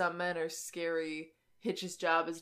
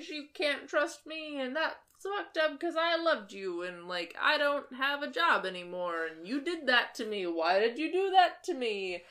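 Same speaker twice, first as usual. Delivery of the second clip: mock impassioned plea; 5 semitones higher than usual. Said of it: "impassioned monologue".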